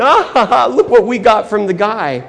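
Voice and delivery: hammed-up robber's ha-ha; high, crowing bad-guy laughter; laughing villain. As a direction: gloat with a mock laugh.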